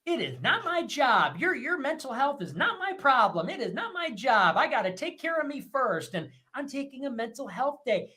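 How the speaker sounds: mocking modern women's posts; mock self-care quote. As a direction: mimic a smug Instagram caption. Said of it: "quotes where it's like".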